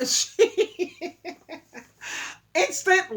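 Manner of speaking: cracking up on the word; laugh, then try to speak through it. Real, not acted. Woman retelling mother's shock, overcome with laughter.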